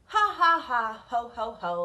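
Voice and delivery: loud "ha, ha" fading to "ho, ho"; loud mock laugh. Two pigs laughing off their brother's warning, loud then fading. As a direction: start big, let the laugh die off. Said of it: "laughed the two little pigs again".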